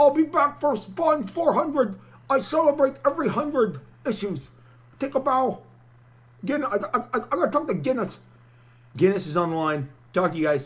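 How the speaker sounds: low, stumbling, faltering voice. Doing an impression of Todd McFarlane, leaving to work on Spawn. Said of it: "he's doing an impersonation of Todd McFarlane".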